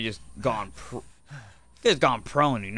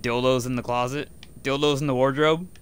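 louder rising incredulous question; amused disbelief; 3 semitones higher, 6 dB louder than usual. Real, not acted. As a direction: toss it up in amused shock. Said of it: "That's a fucking name for a book".

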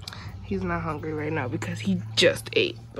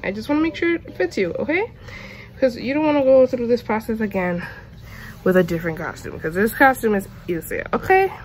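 talking to the dog; 2 semitones higher than usual. Real, not acted. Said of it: "I'm talking to my dog like he understands".

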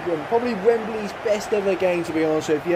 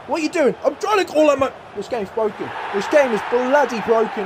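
higher, exasperated questioning; frustrated; 7 semitones higher than usual. Real, not acted. Gamer yelling at his own player, frustrated. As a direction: demand to know why the player won't listen.

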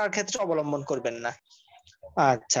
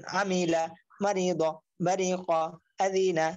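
each word whole, short gap between words; joined-up reading; slower than usual. Shown as a demonstration. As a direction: model "আমিলা, মারি দ, বারি ক, আদিনা" with syllables blended. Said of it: "একসাথে reading করবেন".

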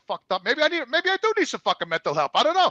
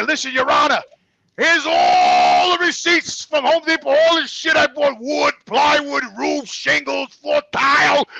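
loud, high, mock plea to a judge; acted courtroom outburst; 4 semitones higher, 4 dB louder, slower than usual. Husband showing the judge his receipts, acted loud indignant plea. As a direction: pile up the evidence loudly, item by item.

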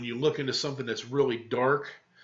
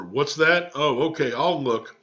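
louder, booming voice; bellowing; 2 semitones higher, 6 dB louder than usual. Acted. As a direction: bellow it across the house. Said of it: "he bellowed".

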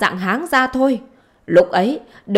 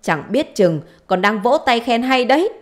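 higher, raised-voice acted grievance; indignant complaint; 3 semitones higher, 4 dB louder than usual. Mother complaining to her daughter about husband's children, indignant. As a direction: pour out accusations with rising pitch.

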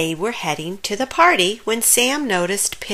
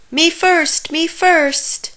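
eager; 9 semitones higher, 3 dB louder, slower than usual. A narrator's reading. Eager for bobbing apples.

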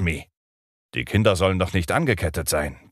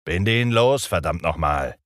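angry order. Acted. Hook repeats the order, angrier.

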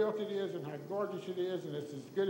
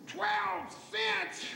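very high-pitched outraged mock scream; 13 semitones higher than usual. Customer hearing the new tobacco price, mock screaming. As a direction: shriek it high in disbelief, imitating the customer. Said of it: "And he started screaming".

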